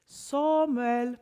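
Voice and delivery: calling out. A narrator's reading. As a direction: draw out the name as a call. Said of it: "en gång till kommer rösten".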